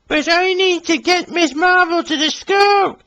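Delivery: Billy voice. Acted. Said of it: "said Billy".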